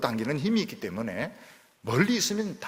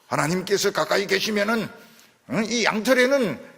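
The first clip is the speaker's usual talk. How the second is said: fervent prayer; 11 semitones higher, 6 dB louder than usual. Retold or imitated. Gideon's pleading prayer acted.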